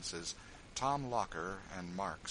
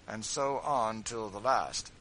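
firm end; 3 semitones higher, 9 dB louder, slower than usual. A narrator's reading. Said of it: "said George".

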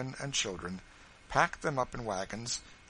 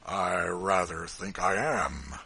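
slow, loud, firm and deliberate; a big man's emphatic drawl; with emphasis; 3 semitones lower, 6 dB louder, slower than usual. Acted. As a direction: lean hard on every word. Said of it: "with some considerable emphasis".

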